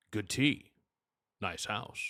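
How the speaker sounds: terse, understated Klingon officer; soft, stiff Klingon small talk; Worf. Acted. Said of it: "looking up famous Worf quotes".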